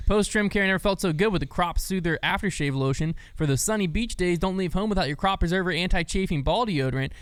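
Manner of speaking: upbeat podcast sponsor read; scripted sales patter with punched key words. Acted. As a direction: pitch the product with lively emphasis. Reads the sponsor ad.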